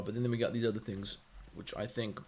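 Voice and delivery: talking with a mouthful; chewing peanuts while talking; mouth full. Real, not acted. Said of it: "I got peanuts in my mouth".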